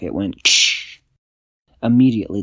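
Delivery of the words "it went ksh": stick snap. A narrator's reading. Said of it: "snapped a stick".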